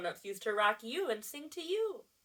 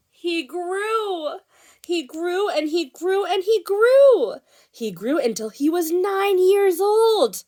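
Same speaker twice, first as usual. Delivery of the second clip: high, loud, swelling storytelling; excited read-aloud; 9 semitones higher, 13 dB louder, slower than usual. A narrator's reading. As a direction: make each grew bigger than the last. Reads story to children.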